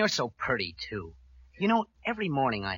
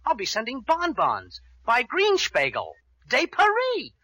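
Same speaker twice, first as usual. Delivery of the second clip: mock French; 10 semitones higher, 6 dB louder, slower than usual. Mock fancy French flourish.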